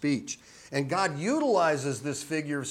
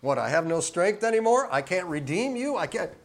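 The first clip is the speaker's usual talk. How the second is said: higher-pitched mock-incredulous questioning; rhetorical disbelief; 5 semitones higher, 4 dB louder than usual. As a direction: throw it out as an absurd question. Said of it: "It's rhetorical".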